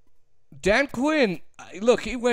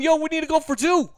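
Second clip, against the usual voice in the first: eager assistant; 4 semitones higher, faster than usual. Retold or imitated. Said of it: "these other guys coming up to him".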